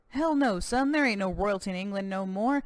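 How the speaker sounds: lightly voiced American cowboy governor, proud; a touch of boastful Texan governor.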